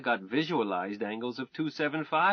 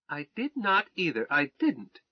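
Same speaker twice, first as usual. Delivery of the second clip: indignant denial; 4 semitones higher than usual. Acted. Wife denies the accusation.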